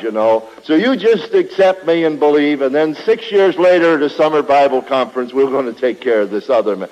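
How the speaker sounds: sarcastic, easygoing coaxing, quick. Pretend. Preacher mocking an easy-believism appeal, quick and sarcastic. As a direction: parody a preacher begging for converts. Mocking a soft-sell gospel.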